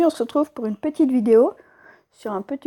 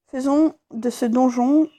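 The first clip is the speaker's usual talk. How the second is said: slow, hesitant first read of "Faisons de ce donjon"; halting read. Real, not acted. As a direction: stumble slowly through "Faisons de ce donjon". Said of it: "j'ai pas l'habitude de lire".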